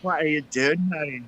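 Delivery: lightly voiced Scottish accent. Playing a Scot addressing Mary, Scottish accent. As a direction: put on a light Scottish burr. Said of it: "he does the Scottish".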